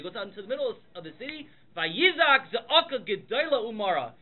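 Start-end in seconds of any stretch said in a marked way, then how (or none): 1.8-4.1 louder, slow, drawn-out emphasis; retold outcry. Teacher telling how Mordechai screamed, mild retold outcry. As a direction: evoke a great cry without really screaming. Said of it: "he screams on top of his lungs".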